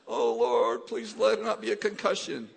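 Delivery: loud, laughing half-joking plea; laughing mock prayer. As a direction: pray it while laughing at yourself. His anxious inner prayer, laughing.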